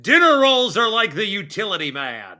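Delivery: announcer read breaking into laughter; laughing through it. Real, not acted. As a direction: hold the voice while chuckling. Cracking up mid announcer bit.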